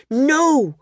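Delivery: put-on a boy protesting the wings taken, shouting; shouted no. A narrator's reading. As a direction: cry out against it. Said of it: "Coll shouted".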